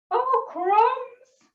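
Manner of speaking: high, acted little yelp of dismay; storybook alarm. A narrator's reading. Snake spots the Gruffalo, high mock alarm. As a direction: play a startled snake, pitched right up.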